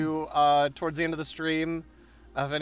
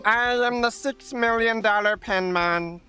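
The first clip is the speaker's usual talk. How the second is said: villain boast; 7 semitones higher than usual. Pretend.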